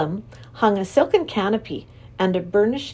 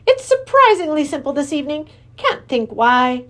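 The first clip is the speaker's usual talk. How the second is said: high, jolly creature king; a cheerful high king; Wangdoodle king; 7 semitones higher, 5 dB louder than usual. Acted.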